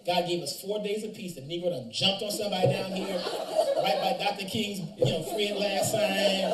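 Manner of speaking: exasperated outburst. Retold or imitated. Preacher quoting himself finding his student fighting, loud laughing exasperation. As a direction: throw up your hands and laugh it out loud. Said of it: "I, I said".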